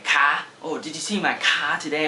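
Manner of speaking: car said for cat, the final t dropped; a mock confused mix-up, car for cat; dropped final sound. Shown as a demonstration. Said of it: "and you just say".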